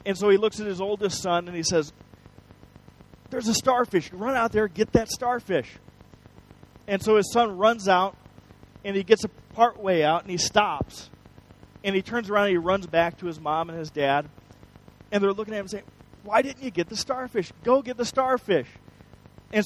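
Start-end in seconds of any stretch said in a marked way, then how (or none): 3.3-5.8 higher-pitched eager instruction; a father lightly urging his son on; urgent calling out. Retold or imitated. Father sends son after starfish. 16.2-18.7 higher-pitched puzzled prodding; mildly exasperated parent, retold; insistent urging. Parents urge son back out.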